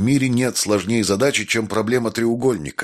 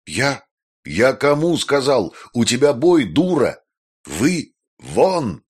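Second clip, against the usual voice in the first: higher, raised furious tirade; angry yelling; 5 semitones higher, slower than usual. A narrator's reading. Maestro yelling at Jessica to go fight, higher furious shouts. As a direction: rage at her like a drill sergeant.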